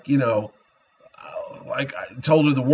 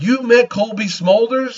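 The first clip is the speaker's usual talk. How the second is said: amazed family; 7 semitones higher than usual. Retold or imitated. Family hears who he met.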